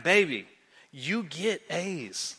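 soft, slow words of comfort; tender reassurance. Retold or imitated. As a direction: gently reassure your wife, slow and hushed. Husband reassures wife while praying.

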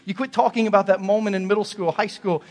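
loud, high exhortation; altar-call preacher pleading loudly; preaching at full force. Acted. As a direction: press the congregation to commit.

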